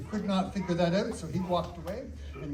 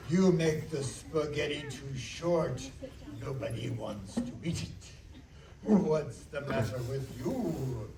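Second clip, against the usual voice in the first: grumpy boss; 2 semitones lower, 3 dB quieter than usual. Retold or imitated. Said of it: "He goes".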